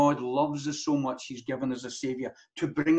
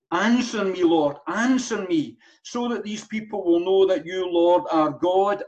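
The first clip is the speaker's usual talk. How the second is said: fervent prayer; 3 semitones higher, 5 dB louder than usual. Acted. Voicing Elijah's prayer.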